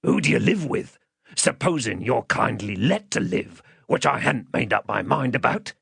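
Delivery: rough captor, mildly threatening; menacing man. Acted. Man deciding whether the child lives, mildly menacing. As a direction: question the child with a threat underneath.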